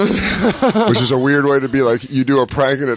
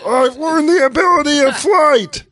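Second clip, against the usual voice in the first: mock grandeur; 11 semitones higher than usual. Mocking flying comic.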